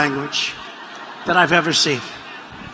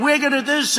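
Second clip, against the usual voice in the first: mock Bernie rant; 5 semitones higher, 4 dB quieter than usual. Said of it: "Bernie Sanders was ranting and raving".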